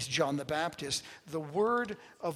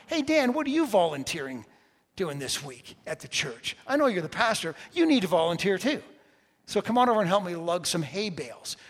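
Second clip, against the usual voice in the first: a touch of a louder, no-nonsense friend; blunt buddy; 5 dB louder than usual. Retold or imitated. Pastor quoting his buddy Dale, lightly voiced and blunt. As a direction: tell him straight, mildly pushy. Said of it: "tells you straight in the eye".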